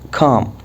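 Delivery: calm said as kahm, no L sound; calm بدون اللام; silent L. Shown as a demonstration. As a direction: drop the L in calm. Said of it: "ال L هنا silent".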